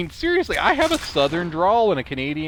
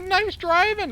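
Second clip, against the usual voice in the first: higher, eager compliment; positive; slower than usual. Shown as a demonstration. Showing viewers his compliment, upbeat and positive. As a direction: show how positive it sounded. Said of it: "Like, like, positive".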